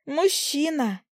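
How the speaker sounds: high excited blurt. Acted. Fly blurts out finding a man, high excited. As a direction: blurt it out thrilled. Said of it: "выпалила она".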